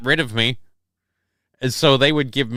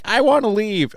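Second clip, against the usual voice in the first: inner thought; 9 semitones higher than usual. Retold or imitated. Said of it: "that's all I could think is".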